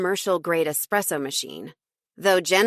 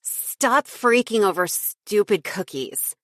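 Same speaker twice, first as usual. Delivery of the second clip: put-on slurring drunk; 3 semitones higher than usual. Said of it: "Her speech was slurring a bit".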